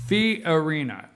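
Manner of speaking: slow, careful "Fiorina", every syllable sounded; enunciated name. Shown as a demonstration. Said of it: "I gotta enunciate there".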